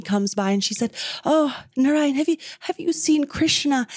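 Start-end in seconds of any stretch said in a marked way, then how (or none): 1.3-3.9 higher-pitched, lightly acted earnest question; really asking. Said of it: "And she's really asking".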